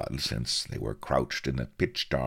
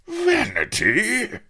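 very high, drawn-out incredulous squeak; loud, aghast rising question; shocked gasp; 7 dB louder, much slower than usual. A narrator's reading. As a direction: gasp it like a leaky valve. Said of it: "he gasped".

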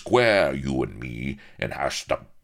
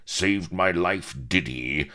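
blustering pirate outrage, often louder; indignant howl; 4 semitones higher, 4 dB louder than usual. Acted. Outraged pirate berates the man he carried, indignant howl. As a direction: rail at the ingrate, swelling to a loud finish. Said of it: "howled Firebeard".

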